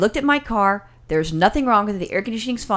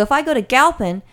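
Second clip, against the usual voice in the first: retold anger; 2 semitones higher than usual. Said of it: "now I was getting pissed off".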